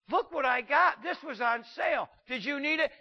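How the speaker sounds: hammed-up shopper showing off bags; mock excited shopper. Shopper showing spouse her sale haul, mock gushing.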